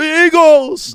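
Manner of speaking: very high, very loud, booming shout. Doing the voice of a football radio announcer when asked: Merrill Reese impression. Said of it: "do his voice".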